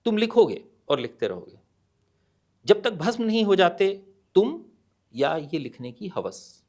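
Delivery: measured verse with a pause before the close; poem recitation. Acted. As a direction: recite it firmly, easing off at the end. (कविता पाठ, ठहराव के साथ)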